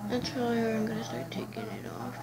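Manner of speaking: whispering. Real, not acted. Whispering while peeling mask.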